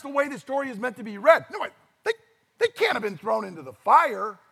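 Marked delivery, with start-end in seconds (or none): 1.5-4.4 mock disbelief. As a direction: react as if hearing the story for the first time.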